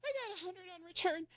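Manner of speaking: high-pitched, half-sobbing cries of joy; reliving the win, tearful and high; retold joyful sobbing. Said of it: "bawling my eyes out".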